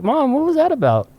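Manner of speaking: put-on high-pitched puzzled child; hammed-up child asking for answers; imitated kid. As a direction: question mom like a little kid. Child self questioning his mom.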